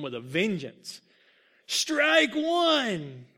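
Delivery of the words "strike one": high, loud, drawn-out ump call; umpire's shouted call. A narrator's reading. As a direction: call the pitch out across the field. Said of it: "The call shattered Muggsy's ears".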